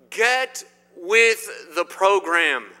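slow, emphatic call to the crowd; hollering from sidelines. Acted. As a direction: call it out word by word, like a coach on the sidelines. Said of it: "to holler to you from the sidelines".

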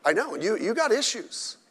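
normal talking voice

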